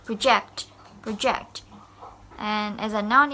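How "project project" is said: "Project" said pro-JECT; stress on last syllable. Shown as a demonstration. Teacher modelling project as a verb, end-stressed "project". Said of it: "stress at the end of the word".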